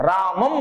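రామం with the final ం hummed through the nose; nasal final sound. Shown as a demonstration. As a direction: draw out the closing m of రామం nasally. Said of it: "చివరి సున్నా ముక్కుతో పలుకుతాం". (రామం చివరి సున్నాను ముక్కుతో సాగదీసి పలకడం)

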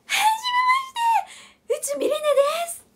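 high squeaky imitation; imitating Rine. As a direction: pitch it way up, whiny. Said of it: "絶対違う、こんなんじゃない".

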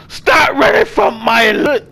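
hammed-up crying shout; mock sob-yell. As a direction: wail after him in mock grief. Begging a fleeing character.

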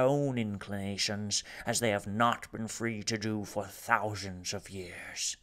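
a lightly voiced dignified Rumford; measured farewell speech.

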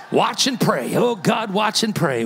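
loud, hammed-up pleading prayer; mock fervent prayer. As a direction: cry out to God in playful desperation. Mimes praying while peeking at her.

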